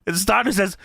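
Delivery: usual speaking voice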